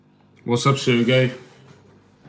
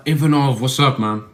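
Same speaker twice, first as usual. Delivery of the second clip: loud greeting; 4 semitones higher, 5 dB louder than usual. Real, not acted. Greeting a viewer by name.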